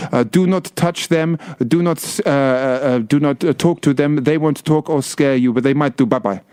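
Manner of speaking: lightly hammed, halting slow warning; a touch of comic tour-guide patter; jokey guide. Guide warning tourists about the actors, jokey manner. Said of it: "do it in a little jokey manner".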